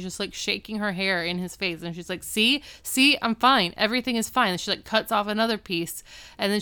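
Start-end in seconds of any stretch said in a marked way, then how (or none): 2.2-4.5 manic insistence. Retold or imitated. Manic reassurance after cutting hair.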